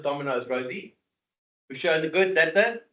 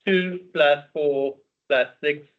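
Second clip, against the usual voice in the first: slow, drawn-out pretend Russian; mock Russian accent; slower than usual. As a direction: say it like a jokey Russian. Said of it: "maybe I need to speak in Russian".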